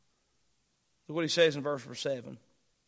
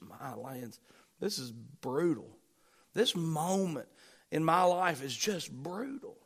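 weary hush; 6 dB quieter than usual. Acted. Preacher voices a weary inner sigh.

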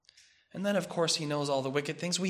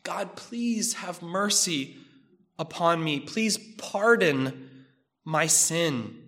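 slow, soft pleading to God; pleading prayer; 2 semitones lower, 4 dB quieter, slower than usual. Acted. Psalmist begging God for pardon, softly pleading. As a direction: beg for mercy, slowly and quietly. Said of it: "And he pleads".

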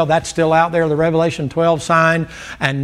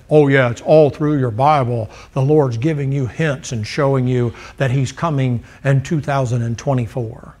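low, hushed knowing voice, lightly mocked; mocking the preacher; 4 semitones lower than usual. Mocking a date-setting preacher, low and hushed. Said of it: "And that guy says".

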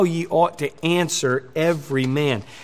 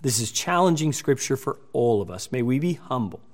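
closing prayer. Acted. Pastor leading his church in a closing prayer, hushed. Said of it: "Would you pray with me?".

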